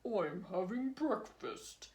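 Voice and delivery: smug snake chewing as he answers; mouth full. Acted. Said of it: "Speaking with his mouth full".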